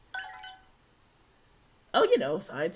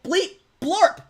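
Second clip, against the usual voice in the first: shrill robot beeps, much higher; 9 semitones higher, 11 dB louder than usual. Pretend. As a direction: squeal it out like a toy robot. Robot bit again, higher.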